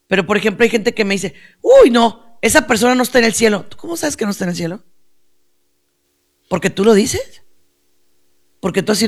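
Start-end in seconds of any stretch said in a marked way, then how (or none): 1.6-3.7 mock judgmental. People judging who is in heaven, mock judgmental. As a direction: imitate someone scandalized about another person.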